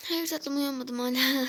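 slow, drowsy just-woken voice; fake sleepy. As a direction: drag it out like you just woke up. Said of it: "uykuluymuş, yeni kalkmışım gibi davranacağım". (sahte uykulu, yavaş konuşma)

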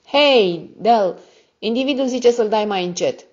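shouted high over the loud radio; calling out. Acted. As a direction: call back over your shoulder above the noise. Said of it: "a strigat pe fondul de zgomot".

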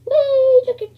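high, loud squeal with a laugh; gleeful whee. Real, not acted. Gamer floating in zero gravity, squealing gleefully. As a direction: ride the fun of floating.

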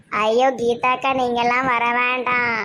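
sudden shouted refusal; hurried shout to keep the neighbour away. Acted. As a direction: yell to stop her coming along. Stopping the neighbor from coming.

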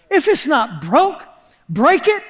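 questioning repeat, pitch lifting on the last words; puzzled echo. Retold or imitated. Preacher repeats another preacher's saying, puzzled. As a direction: echo the saying as if it makes no sense. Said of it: "That makes no sense".

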